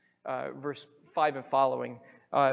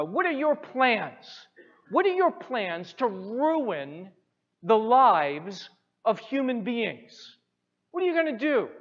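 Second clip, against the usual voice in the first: loud, slow, higher demanding boss voice; booming devil quizzing his pupils; Satan's question; 5 semitones higher, 9 dB louder than usual. Retold or imitated.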